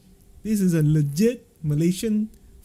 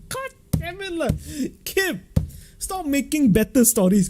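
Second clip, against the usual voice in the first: playful exasperation; 9 semitones higher, 4 dB louder than usual. Real, not acted.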